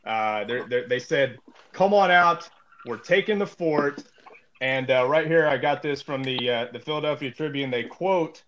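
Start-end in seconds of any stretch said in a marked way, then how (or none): 1.7-4.0 retold militia shout. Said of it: "They're shouting for him to come out".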